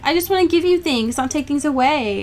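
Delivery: hammed-up self-pitying moping; mopey. Reader imitating a brooding fiancé for her co-host, mock mopey. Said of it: "starts being a mopey person".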